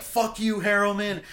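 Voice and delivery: high-pitched comic heckle; retold yelling. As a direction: re-enact hurling an insult down the street. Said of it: "yelling all this shit at him".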